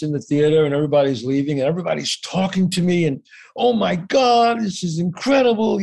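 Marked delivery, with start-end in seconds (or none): 3.5-5.8 imitating an awed fan, higher pitch; gushing praise. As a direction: draw it out like a gushing admirer. Audience gushing after the show.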